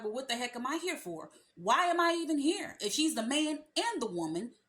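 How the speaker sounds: hammed-up confused guy who asks why he is there; exasperated boyfriend. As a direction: mimic a man who feels useless, rising to an outburst. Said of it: "he's gonna be like".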